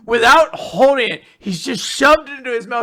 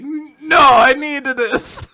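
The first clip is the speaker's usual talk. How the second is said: raised, stretched-out mock protest; 3 semitones higher, 5 dB louder, slower than usual. Told to put hand down, loud mock protest. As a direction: refuse loudly, dragging out the last words. Refuses to drop the accent.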